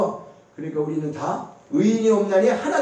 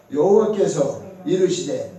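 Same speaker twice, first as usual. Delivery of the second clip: slow, measured Bible verse reading; scripture recitation; slower than usual. Real, not acted. Preacher leads congregation in reading Jonah's verse aloud, slow scripture recitation. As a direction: recite the verse deliberately, drawing out the words. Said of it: "사 장 사 절 시작".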